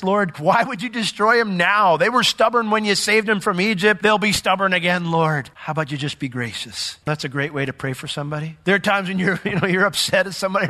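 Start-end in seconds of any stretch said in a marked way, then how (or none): 0.0-7.0 Moses bargaining with God. Retold or imitated. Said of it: "He says".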